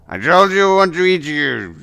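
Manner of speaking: high, loud hungry yell; shouting threat. Acted. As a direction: bellow it at stubborn prey. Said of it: "keeps shouting there, like".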